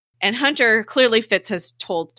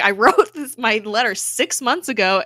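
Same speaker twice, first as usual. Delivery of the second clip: excited; 4 semitones higher, 6 dB louder than usual. Retold or imitated. Hunter answers Fitz, retold.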